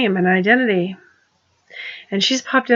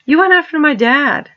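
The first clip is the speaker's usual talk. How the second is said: louder and higher, WENT hit hard; irritated; 6 semitones higher, 4 dB louder than usual. Real, not acted. Accusing Donald of going after her dad, irritated and raised. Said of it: "I'm also genuinely irritated with you".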